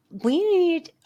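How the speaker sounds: talking around candy in mouth; mouth full. Real, not acted. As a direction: speak with something in your mouth. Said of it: "let me spit this out".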